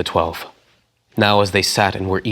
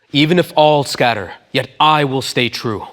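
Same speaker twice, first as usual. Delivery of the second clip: earnest protest; 6 semitones higher, 5 dB louder than usual. Acted. Peter protests his loyalty.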